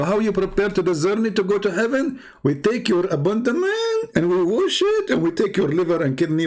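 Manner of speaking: high, incredulous mock how-to; mock instructions. Commentator mocks the preparation for heaven, mock-instructional. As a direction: pitch up in pretend procedure, drawing out the key words. Mocking the journey's preparation procedure.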